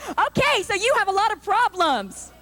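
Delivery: high, chirpy talk show host voice; mock cheerful host to a crying guest; Ricki Lake impression. Ricki Lake to her upset guest, chirpy and high. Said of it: "She's like".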